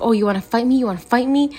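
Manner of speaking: mildly heated, pitch climbing on the repeat; retold pissed-off challenge. Drunk new friend squaring up to the speaker at a bar, mock pissed-off. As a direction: imitate someone getting in your face, lightly. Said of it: "She got so pissed at me".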